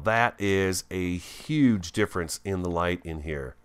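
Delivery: usual speaking voice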